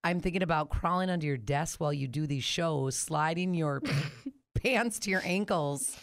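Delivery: attempted British accent. Co-host reading a flirty text aloud, attempted British accent. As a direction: read it in a nervous try at British. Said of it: "Can I do it in a British accent".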